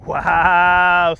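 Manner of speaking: a real, loud, delighted wow at the horse; a real, loud, delighted wow as the pony clears the tight gap. Real, not acted. Admiring horse after tight pass.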